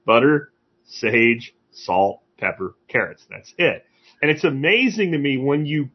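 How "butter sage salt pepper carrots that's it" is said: slow deliberate list. Retold or imitated. Retold calm ingredient list.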